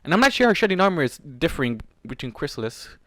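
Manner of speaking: ordinary delivery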